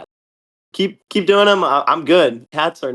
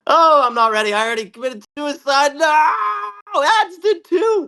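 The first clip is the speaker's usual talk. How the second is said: real dismay; 12 semitones higher than usual. Real, not acted. Own player dies in rumble.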